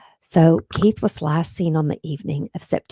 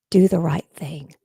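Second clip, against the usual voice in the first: pleading whisper. Real, not acted. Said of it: "I'm feeling a little emotional today".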